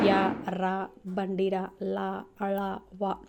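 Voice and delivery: యా, రా, బండిరా, లా, అళ, వా sounded separately with the tongue curling; tongue-curled articulation. Shown as a demonstration. Teacher showing how the tongue folds for these letters, యా, రా, బండిరా, లా, అళ, వా articulated one by one. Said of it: "నాలుకని ఇలా మడత పెట్టి మనం పలుకుతాము".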